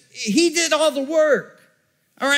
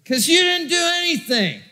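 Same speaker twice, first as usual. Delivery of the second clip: preacher's shout; 6 semitones higher than usual. Acted. Preacher scolds the drunk.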